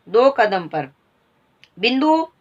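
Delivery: high call across the veranda. Acted. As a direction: call the boy back, name rising high. Mistress calls servant boy.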